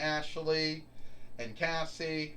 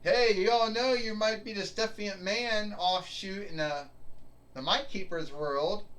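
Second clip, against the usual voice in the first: higher, mock chirpy check-in; mock friendly asker; 6 semitones higher than usual. The speaker imitating a caring coworker, higher and mock chirpy. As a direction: sarcastically act out the greeting nobody gives. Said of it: "No one ever asks me how my day's doing".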